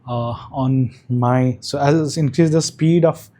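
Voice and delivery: mic with noise reduction artifacts; processed voice, background noise gated out; noise cancellation. Real, not acted. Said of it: "this is the microphone with active noise cancellation on".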